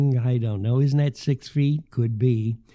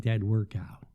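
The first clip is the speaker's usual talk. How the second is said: whisper; 4 semitones lower, 6 dB quieter than usual. Real, not acted. Turning down the homeless applicant.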